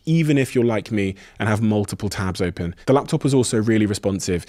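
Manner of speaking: evenly paced podcast ad read; sponsor read. Acted. Podcast host reads Intel laptop sponsor message to listeners, ad read. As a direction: read it as polished sponsor copy.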